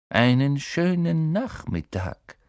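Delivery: slow, drawn-out gentle greeting; silky gentle. A narrator's reading. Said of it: "sagte er sanft".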